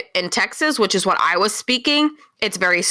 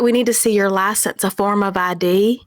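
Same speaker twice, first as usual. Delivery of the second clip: imitated Southern accent. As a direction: lightly mimic a Southern official. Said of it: "I had to translate for Mike".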